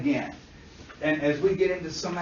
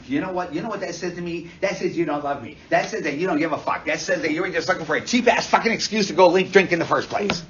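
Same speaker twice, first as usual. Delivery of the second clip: acted accusation; 6 dB louder, faster than usual.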